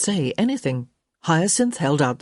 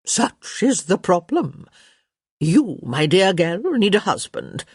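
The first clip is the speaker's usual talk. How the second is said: lightly voiced emphatic old dowager; imperious Lady Danbury; 3 semitones higher than usual. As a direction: pronounce judgement on the girl. Voices Lady Danbury lecturing Hyacinth.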